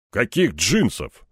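slow, puzzled question; taken aback. Acted. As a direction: ask slowly, mildly stunned. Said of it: "опешил он". (опешив, медленно)

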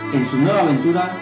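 ordinary talk

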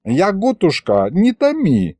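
put-on old man begging the witch to tell; pleading. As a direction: plead with her not to keep him waiting. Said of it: "взмолился Михалыч".

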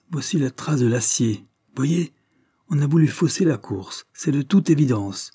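a hint of an outraged gentleman vowing justice; indignant marquis. Owner voiced, indignant speech. (le marquis indigné, voix un peu plus haute)

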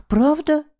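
very high, sobbing; a high tearful hope; sobbing question. A narrator's reading. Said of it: "всхлипнула дурочка". (всхлипнув, очень высоко)

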